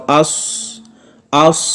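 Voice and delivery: اس with a hissing s that fades; اس ending in fading air; breathy s. Shown as a demonstration. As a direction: keep the air flowing on the s of اس. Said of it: "سواد کو بھی پڑھتے وقت اسی طرح ہوگا".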